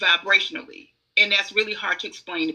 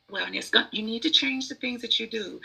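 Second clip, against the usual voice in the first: polite version; 3 semitones higher, 3 dB quieter than usual. Shown as a demonstration. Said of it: "If I say".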